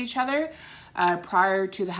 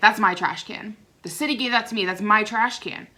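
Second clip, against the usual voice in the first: mock, a little confrontational, mildly aggressive, insistent. Retelling what she said about the trash can: imitating an aggressive tone of voice. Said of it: "getting a little aggressive with me with her turn, tone of voice".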